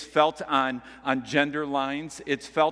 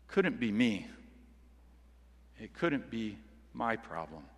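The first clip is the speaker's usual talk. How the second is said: muttered excuse; 5 semitones lower, 8 dB quieter than usual. Retold or imitated. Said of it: "to blame both God and the woman".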